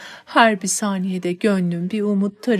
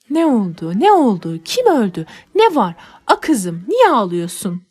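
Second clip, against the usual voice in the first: alarmed nanny; 5 dB louder than usual. Acted. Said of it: "diye seslenince".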